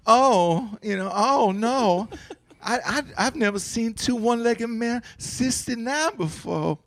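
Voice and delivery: mock Southern belle. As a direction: play a shocked Southern belle, half laughing. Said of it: "can you do a Southern accent".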